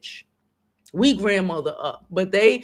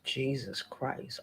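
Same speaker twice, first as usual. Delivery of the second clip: emotional; 4 semitones lower, 13 dB quieter, slower than usual. Real, not acted. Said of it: "I'm getting emotional".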